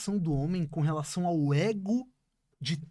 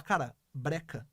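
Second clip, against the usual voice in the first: quiet slow plea; 3 semitones lower, 6 dB quieter, slower than usual. Retold or imitated. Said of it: "é o jeito dela falar".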